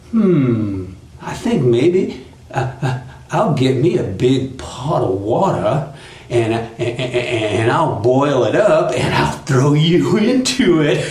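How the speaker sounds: halting, thinking aloud, breaking into a laugh; scheming Brer Fox, pondering. Acted. Fox devises a punishment, halting then gleeful. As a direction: stammer out a wicked plan as it forms.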